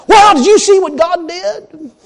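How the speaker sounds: a touch of mock wide-eyed surprise, slow and high; mock amazement. Preacher mocking surprised churchgoers, mild mock amazement. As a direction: lightly parody gushing astonishment. Mocking believers shocked at answers.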